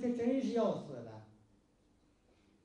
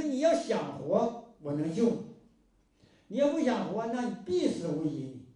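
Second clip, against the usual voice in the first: firm insistence; 5 dB louder than usual. Retold or imitated. Healer firmly tells dying patient.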